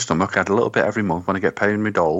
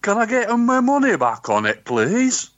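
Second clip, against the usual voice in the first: put-on botched Indian accent; 11 semitones higher than usual. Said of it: "I'm going Indian now".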